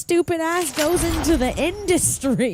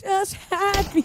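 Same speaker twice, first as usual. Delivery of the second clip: "Just happy" drawn out slowly after the shout; slow, deadpan repeat; 5 semitones higher, slower than usual. Real, not acted. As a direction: let it sink in, slow and dry.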